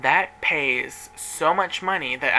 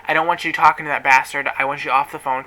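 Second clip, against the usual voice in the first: mild mock yell, punched louder at first; retold angry scream; 5 dB louder than usual. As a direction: retell the furious order, only half-shouted. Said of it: "I'm screaming at the top of my lungs".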